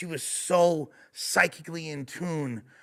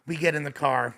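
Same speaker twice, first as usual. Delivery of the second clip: normal talking voice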